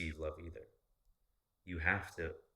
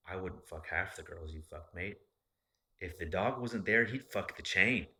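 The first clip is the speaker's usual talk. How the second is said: put-on Australian accent; 5 dB louder than usual. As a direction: imitate an Aussie dad talking to his son. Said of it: "that accent is adorable".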